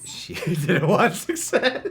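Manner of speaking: high unvoiced whisper through laughter; laughing whisper. Real, not acted.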